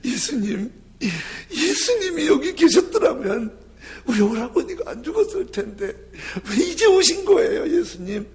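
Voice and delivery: high, halting wail of grief; acted sobbing. Grieving sister reproaches Jesus for coming too late, acted wailing sobs. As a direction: act out choking on tears, voice shooting up. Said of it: "막 울면서 말을 잊지 못하면서".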